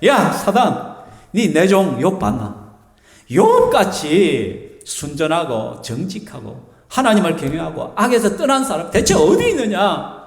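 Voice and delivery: God bragging slowly, savouring each word; drawn-out proud boast to Satan; God, thrilled with Job, slowly taunting Satan; gleeful boasting God. Retold or imitated. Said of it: "너무 기분 좋은 거야".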